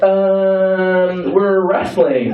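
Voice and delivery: long held "um", then a feeble cover story; hesitant, drawn-out mock excuse; stalling excuse. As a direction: play a mom caught out and improvising.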